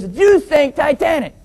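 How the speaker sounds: high accusation in put-on Chinese accent; mock Chinese accent. Co-pilot blaming pilot's people, mock Chinese accent. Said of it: "the Chinese guy looks over".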